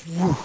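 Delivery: airy "whew" of a rocket launching; imitated firework whoosh. Pastor retelling the first mortar launch, imitated whoosh. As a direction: mimic a firework shooting off. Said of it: "and the first one goes".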